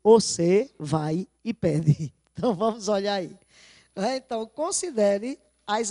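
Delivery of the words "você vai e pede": mother's line. Retold or imitated. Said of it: "E no segundo ela diz o quê".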